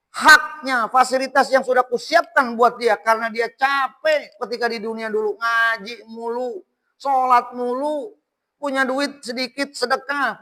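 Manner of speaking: high, emphatic preacher voicing God; God's proclamation. Voices God praising His servant.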